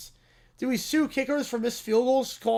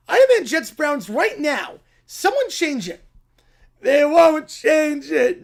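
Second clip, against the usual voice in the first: bratty demand; 3 dB louder than usual. Acted. Brat demanding someone change the game, loud whine. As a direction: demand it like a kid mid-tantrum.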